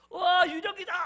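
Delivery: high, loud shout of terror. Acted. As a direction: cry out as a frightened disciple seeing a ghost. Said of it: "다 무서워서 벌벌 떨고 있는". (겁에 질려 지르는 비명 같은 외침)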